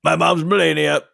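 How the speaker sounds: a light Donald Junior voice, hesitant and stammering; a lightly voiced, halting Donald Junior; Donald Junior impression. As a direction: stumble through it like Donald Junior. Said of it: "working on my Donald Junior".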